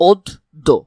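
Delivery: "ওদ দো" as two detached pieces, "od, do"; separated syllables. Shown as a demonstration. Teacher showing they would be separate, "ওদ দো" as detached "od - do". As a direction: leave a gap between "ওদ" and "দো". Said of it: "আলাদা হওয়ার কথা ছিল".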